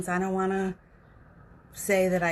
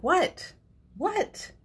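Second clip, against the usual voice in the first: high rising puzzled what, much higher; mock baffled husband, pitch shooting up; 11 semitones higher than usual. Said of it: "he'll be like".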